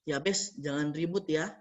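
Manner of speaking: softly, low, hushing a friend; whisper-like hush. Shown as a demonstration. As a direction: hush a noisy classmate gently.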